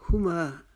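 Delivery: हुमा with quick "hu", longer "maa"; don't stretch the "hu" of हुमा; careful model reading of हुमा; short first vowel. Shown as a demonstration. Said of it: "जल्दी से अदा कर लेना है".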